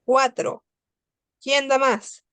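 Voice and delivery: playful auction call for bids; auctioneer. Pretend. Teacher auctions off student answers.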